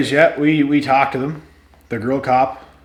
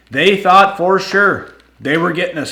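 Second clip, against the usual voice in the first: higher and louder, triumphant telling; crowing about beating the test; gloating; 9 semitones higher, 9 dB louder than usual. Real, not acted. Telling viewers he blew zero, high excited gloating. Gloating climax of the breathalyzer story.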